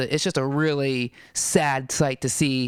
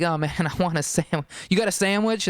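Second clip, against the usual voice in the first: laughing while quoting. Retold or imitated.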